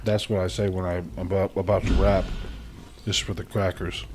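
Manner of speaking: talking while crunching; crunching chips. Real, not acted. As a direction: mouth full of cracker. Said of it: "hear me crunch this mic".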